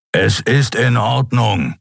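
slow, grudging reassurance with stress on ist; slow, stress on ist, grumbling reassurance; rumbling reassurance. A narrator's reading. Kero assures Xea his wound is fine, grudging rumble. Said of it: "versicherte er grollend".

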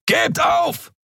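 very high, yelled demand to surrender; enemy yelling surrender; shout. Acted. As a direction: bark it at them. Enemy shouts at the cornered crew.

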